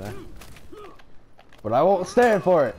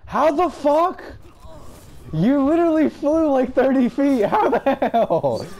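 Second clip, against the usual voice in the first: 1 shocked disbelief; 11 semitones higher than usual. Real, not acted. Opponent flew across the map.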